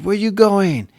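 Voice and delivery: put-on high, eager little kid asking; a small boy calling after his dad; little son's voice. Young son asking his dad where he's going, in a high voice. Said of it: "and he goes".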